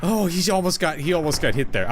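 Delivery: tense, breath held in excitement; holding breath. Real, not acted. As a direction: speak while holding your breath. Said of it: "I'm holding my breath 'cause I'm so excited".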